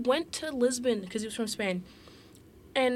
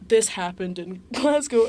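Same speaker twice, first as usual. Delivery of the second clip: louder, slower, breaking into a laugh mid-line; can't keep it together, laughing at the fake spy report; laughing through the quote; 8 dB louder than usual. Retelling the fake spy's report to the listener, laughing.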